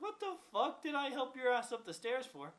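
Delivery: exasperated. Retold or imitated. Retold exasperated outburst at neighbor.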